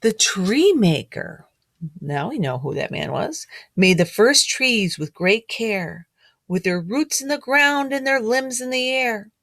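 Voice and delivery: storybook read-aloud, gently rhythmic; reading to children. A narrator's reading. Teacher reading a picture book rhyme to children.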